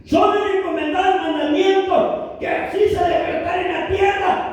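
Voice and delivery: impassioned pulpit proclamation; preaching at full force. Acted. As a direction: preach it to the back row. Preaching climax.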